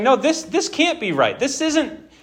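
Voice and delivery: a pleading, indignant prophet; voicing Habakkuk. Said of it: "He was saying".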